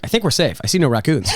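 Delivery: mock watchful tourist, laughing through it; laughing mock vigilance. Friend imitating the host scanning for raccoons, laughing. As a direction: play a smug tourist who sees no threat, half laughing. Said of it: "you walking around going".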